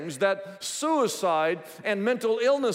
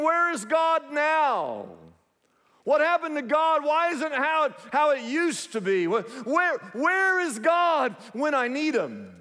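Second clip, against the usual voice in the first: higher, insistent mock plea; anguished questioning; 5 semitones higher than usual. Preacher voices the psalmist needing God, anguished questioning. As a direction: voice a believer's bewildered questions, pitched up.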